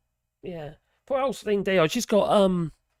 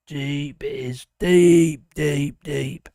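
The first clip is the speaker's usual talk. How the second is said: deep voice; 3 semitones lower, 5 dB louder, much slower than usual. Pretend. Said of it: "It's my deep voice," says the speaker".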